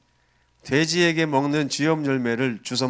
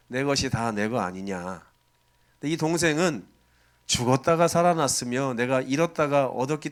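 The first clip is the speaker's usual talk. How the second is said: gentle reply. Acted. Father gently answers angry son.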